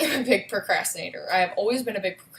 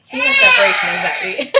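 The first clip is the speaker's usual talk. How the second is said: amused explanation; 13 dB louder than usual. Real, not acted. Explaining son's fussing, laughing.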